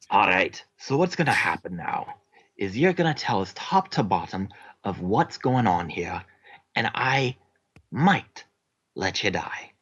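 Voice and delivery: light Scottish interrogator voice; Scottish accent. Acted. Dwarf threatening the prisoner in a mild Scottish accent. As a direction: lean into the brogue, menacing. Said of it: "I am so sorry I cannot stick with this accent".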